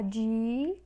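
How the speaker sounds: "dinâmico" in held pieces: di, nan, mi, co; syllable by syllable. Shown as a demonstration. Teacher separating the word, syllable by syllable. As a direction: break "dinâmico" apart with long pauses. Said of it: "então vamos separar".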